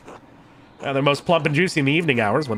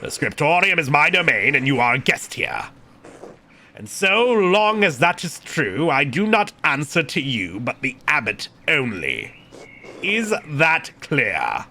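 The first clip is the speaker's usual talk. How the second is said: lightly voiced, imperious churchman; measured formal rebuke; indignant prior.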